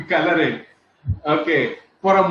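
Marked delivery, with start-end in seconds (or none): 0.1-0.7 laughing as he repeats the joke's last line. Real, not acted. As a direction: repeat the punchline through a laugh. Repeats punchline while laughing.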